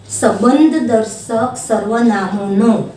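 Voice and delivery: each word slow and spaced for pupils to write; teacher dictating slowly to pupils; slow dictation. Shown as a demonstration. Dictation to class.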